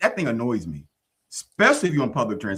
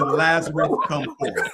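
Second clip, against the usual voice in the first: raised, higher quoted command; mild acted holler; mock yell; 5 semitones higher than usual. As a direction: imitate a yelled summons lightly. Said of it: "he probably yelled and said".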